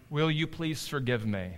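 gentle, softened plea for forgiveness; soft apology. Retold or imitated. Father on his children's level, soft apology. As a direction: ask softly and humbly.

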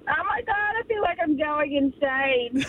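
high exasperated mock wail; exasperated cry. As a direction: cry out as if at wit's end. Retelling a coworker's outburst.

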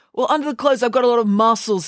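high, boastful schoolboy voice; Binky. A narrator's reading.

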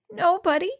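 put-on high whiny little boy's voice; a small crying kid's squeak, lightly voiced; whining squeaky voice. A narrator's reading. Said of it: "replied the whining, squeaky voice".

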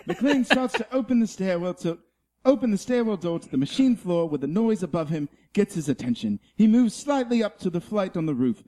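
a light wildlife documentary narration; nature documentary narrator. Acted. Reading the Die Hard script as a nature documentary, lightly. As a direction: narrate the scene like a nature film. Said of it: "Planet Earth, uh, narrates Die Hard".

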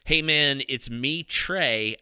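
loud high shouted message; shouting capitalized words. Pretend. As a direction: scream it in their face. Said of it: "try to imagine me screaming this in your face".

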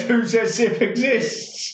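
drawn-out, high-pitched challenge; slow, high, teasing demand; mock challenge. Real, not acted. Mock challenge about sip's existence.

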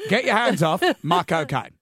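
Michael Caine impression. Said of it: "with a slight English accent".

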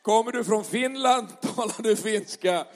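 asking through a laugh; laughing question. Real, not acted. Pastor laughing as he quizzes the crowd about Finnish. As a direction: chuckle while asking. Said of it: "laughing question to crowd".

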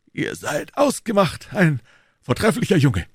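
high-pitched, emphatic praise; exclaiming. A narrator's reading. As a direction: call out your approval of the lad. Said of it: "rief Athos".

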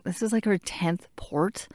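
hushed whispered thought; whispered pity for the girl next door. Retold or imitated. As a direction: whisper it so she can't hear. Inner thought about poor girl.

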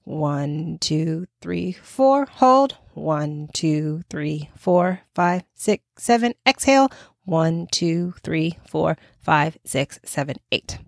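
calm breathing coach counting; guided breath count. Shown as a demonstration. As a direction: count them through the breath slowly and gently. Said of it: "So you would go inhale".

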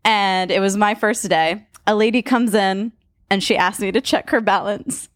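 giggling through a dad joke; telling a dad joke. Acted. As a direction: laugh through the setup, then the punchline. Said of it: "tell us a story".

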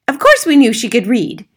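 loud, high-pitched retort; dismissive mother. Acted. Mother to teacher about daughter's reading, dismissive. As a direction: scoff loudly at the news.

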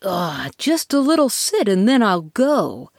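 self-convincing promise; hollow reassurance. Acted. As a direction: talk yourself into it. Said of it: "convincing himself".

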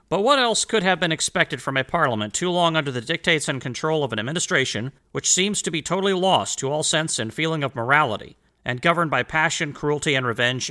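put-on lifted, formal reading of an old letter. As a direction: read it out like a historical document. Rereads quoted passage.

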